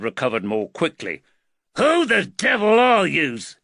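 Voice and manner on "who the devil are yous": loud, high Liverpool thug; Liverpool accent. A narrator's reading. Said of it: "the Liverpool accent".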